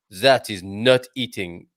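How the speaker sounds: slow, mild mock of a snobbish uncle; snobby uncle. French uncle dismissing vegetarians, slow and haughty. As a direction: drag it out like a disdainful professor. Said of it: "He said".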